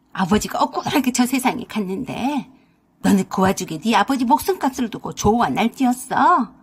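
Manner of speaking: mother-in-law yelling her daughter out of the house; yelling furiously. Acted. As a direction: roar at the greedy daughter. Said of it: "소리를 고래고래 지르셨습니다".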